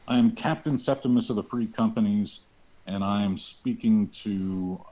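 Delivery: parade drill voice. Acted. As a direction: address the troops firmly. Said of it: "in as much of a parade drill voice as I can".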